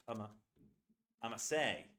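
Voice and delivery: "I'm a say" with "going to" squashed to "a"; heavy reduction. Shown as a demonstration. Teacher showing the strongest reduction of "going to". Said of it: "so reduced that you can barely hear it".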